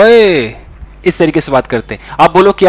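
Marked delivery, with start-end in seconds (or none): 0.0-0.5 boss's shout. Retold or imitated. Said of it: "वो खुद आप दो पल के लिए बन जाते हैं".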